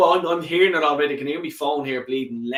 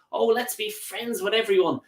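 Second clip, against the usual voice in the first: higher, sing-song mockery of niceness; mock friendly; 6 semitones higher than usual. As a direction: sneer at being everybody's pal. Mocking the friends-with-everyone attitude.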